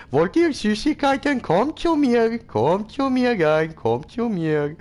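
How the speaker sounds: high, silly creep voice; goofy Sim voice. Pretend. Streamer voicing his Sim calling to neighbours and kids, high and silly.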